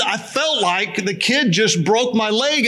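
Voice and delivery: milk the tiny bump for drama; melodramatic complaint. Retold or imitated. Man telling the little kid it broke his leg, overdramatic whine.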